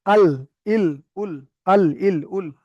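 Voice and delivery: আল, ইল, উল one by one, l held at the upper gums; articulation drill. Shown as a demonstration. Teacher models the lam, separate held-l syllables আল, ইল, উল. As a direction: drill আল, ইল, উল with tongue tip behind the upper teeth. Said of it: "উপরের দাঁতের গোড়াগুলোতে লাগছে".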